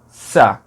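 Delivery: sa with the tongue close to the teeth; dental s. Shown as a demonstration. Teacher showing the old dental s. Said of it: "língua pertinho dos dentes".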